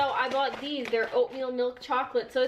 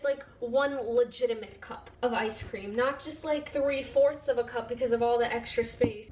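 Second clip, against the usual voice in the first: winded from scooping hard; out of breath. Real, not acted. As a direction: talk while catching your breath. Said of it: "I'm out of breath here".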